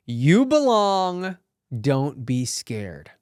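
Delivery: slow, earnest and reassuring; slow reassurance. Shown as a demonstration. Telling fellow actors they belong, said slowly and reassuringly. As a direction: lay it down slowly like a promise. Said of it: "very important lesson in it".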